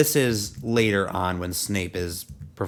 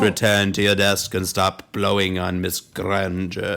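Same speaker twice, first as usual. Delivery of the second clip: slow, lower, lightly voiced stern teacher; Snape impression; 4 semitones lower than usual. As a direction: drawl it slowly like a light Snape. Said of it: "I like your Snape impression".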